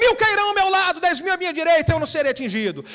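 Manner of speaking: play-acted loud shout. Telling an audience how people at a church gathering called out, another person shouting back. imitating someone shouting. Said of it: "E o outro grita".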